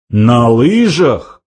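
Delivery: slow, drawn-out incredulous exclamation; outraged cry. A narrator's reading. Old man echoes the skiing insult, slow outraged cry. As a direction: stretch it out in disbelief. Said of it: "вскричал старец".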